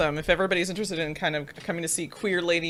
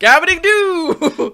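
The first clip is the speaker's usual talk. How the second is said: put-on Brooklyn accent; 11 semitones higher, 10 dB louder, slower than usual. Mock Brooklyn gibberish.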